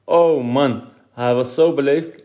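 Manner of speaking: put-on a boy laughing about a too-polite policeman. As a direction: chuckle through the words. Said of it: "lachte Eddy".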